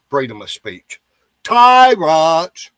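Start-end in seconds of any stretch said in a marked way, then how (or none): 1.4-2.7 angry shout. Real, not acted. Ranting about suppressed speech.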